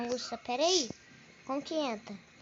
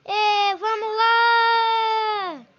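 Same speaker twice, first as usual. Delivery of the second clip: excited; 2 semitones higher, 5 dB louder, much slower than usual. Real, not acted. Riding again.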